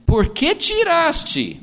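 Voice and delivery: slow, lifted biblical question; God's solemn question. Retold or imitated. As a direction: intone it like the Lord speaking. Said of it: "então o Senhor perguntou a Caim".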